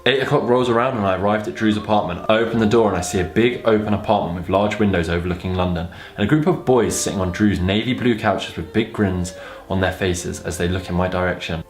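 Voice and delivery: even, measured read-aloud; narrating a story aloud; story narration. A narrator's reading.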